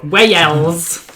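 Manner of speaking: drawn-out mock Welsh, two syllables; amateur Welsh attempt; failed Welsh accent. Shown as a demonstration. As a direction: stretch Wales into a bad Welsh accent. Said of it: "I cannot do a Welsh accent".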